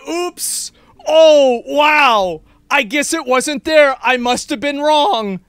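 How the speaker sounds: pretend apology. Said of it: "never a".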